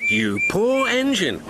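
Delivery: sympathetic. A narrator's reading. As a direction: pour on fake pity. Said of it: "sympathised James".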